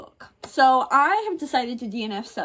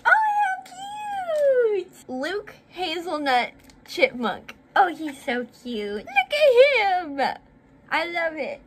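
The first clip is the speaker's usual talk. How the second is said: excited; 7 semitones higher, 5 dB louder than usual. Real, not acted. Unboxing a cute toy.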